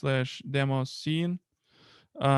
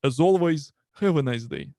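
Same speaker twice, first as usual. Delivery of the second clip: heavy Russian accent. Shown as a demonstration. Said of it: "heavy Russian accent".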